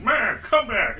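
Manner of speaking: a hint of a whiny come-back-to-me call; mock pleading Russia. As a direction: call after them like a jilted ex, lightly voiced. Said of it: "now Russia's like".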